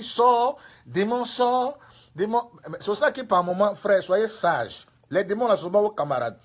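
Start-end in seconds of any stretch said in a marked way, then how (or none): 0.0-2.5 raised, forceful mock order; commanding exorcist. Evangelist at the start ordering demon out, forceful command. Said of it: "tu étais au départ en train de dire".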